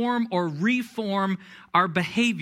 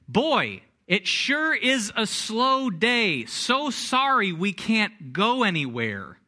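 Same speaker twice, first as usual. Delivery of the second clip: slow, sarcastic politeness; needling the golfers behind with mock-polite small talk; passive-aggressive; slower than usual. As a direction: drag it out with fake sweetness. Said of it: "my passive-aggressive way of saying".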